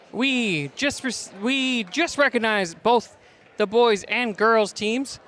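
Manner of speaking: winded after running up stairs; out of breath, catching air. Real, not acted. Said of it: "I'm a little bit out of breath".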